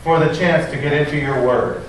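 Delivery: prayer. Acted. Pastor praying for the congregation before the sermon, earnest. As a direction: pray humbly over the congregation.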